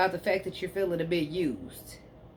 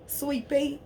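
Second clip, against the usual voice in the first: drawn-out sweet pea; 9 semitones higher than usual. Shown as a demonstration. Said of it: "That's my saying".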